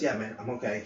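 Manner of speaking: put-on calm kid saying he is fine. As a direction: settle him down gently. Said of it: "He said that in a calm voice".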